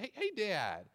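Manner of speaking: a hint of an impatient kid tugging at dad; eager little boy. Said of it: "he begins every question with the phrase".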